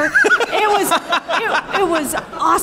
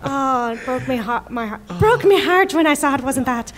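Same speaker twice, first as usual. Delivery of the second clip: put-on a light, playful Irish accent. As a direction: lilt it like an Irish storyteller. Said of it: "I don't know why I went into an Irish accent".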